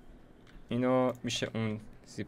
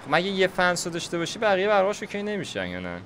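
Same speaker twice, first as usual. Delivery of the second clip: agitated questioning; 7 semitones higher than usual. Real, not acted. Frustrated asking about power.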